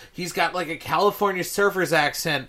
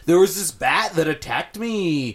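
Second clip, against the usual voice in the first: imitated California surfer accent; mock California surfer voice; Nicolas Cage impression. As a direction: do a bad surfer-dude accent. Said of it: "and he goes".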